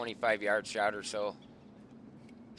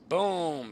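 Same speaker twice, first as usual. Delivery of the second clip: raised, louder boom that falls away; imitated gunshot; 7 semitones higher, 5 dB louder than usual. Hunter recounting the middle deer shot, imitated gunshot.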